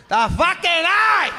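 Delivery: furious shout. Retold or imitated. Father shouting back at his confused son, furious. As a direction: yell it like a fed-up Sicilian father.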